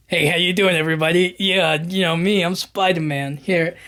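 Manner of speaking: a light put-on New York accent, casual. Peter greets trapped classmates, light New York accent. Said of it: "doubles down harder on the New York accent".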